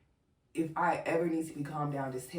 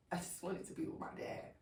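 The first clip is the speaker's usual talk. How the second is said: soft, voice fading with emotion; really getting emotional; 7 dB quieter than usual. Real, not acted. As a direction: let real emotion swallow the voice. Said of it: "I didn't think I was gonna get emotional".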